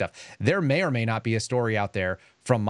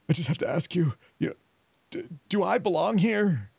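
tearful plea; 7 semitones higher than usual. Retold or imitated. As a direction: mimic a crying trainee asking if she belongs. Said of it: "freaking crying".

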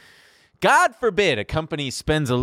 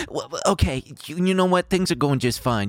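smarmy. Retold or imitated. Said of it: "That was just, like, smarmy ass".

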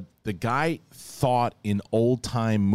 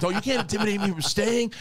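acted defiant quote; 12 semitones higher than usual. Retelling a Sopranos scene.

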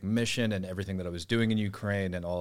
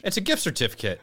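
laughing; 8 semitones higher, 5 dB louder than usual. Real, not acted. Reading packaging to his friend, laughing. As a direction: laugh through it, a bit higher.

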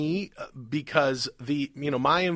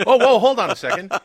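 surprised; 9 semitones higher, 8 dB louder than usual. Real, not acted. Catches himself mid-rant.

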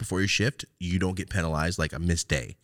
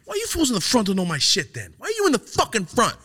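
rapper imitation. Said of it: "he used to do shit like".

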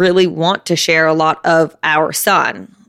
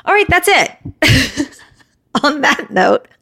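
winded, slow and breathless; out of breath, gasping a little; 8 semitones higher, much slower than usual. Real, not acted. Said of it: "I'm so out of breath".

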